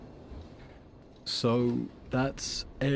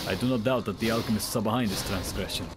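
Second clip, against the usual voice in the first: Soviet-style accent. Shown as a demonstration. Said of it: "A Nicola is more like this".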